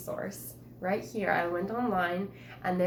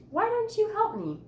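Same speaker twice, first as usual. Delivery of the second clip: pleading; 7 dB louder than usual. Acted. Asking brothers for help.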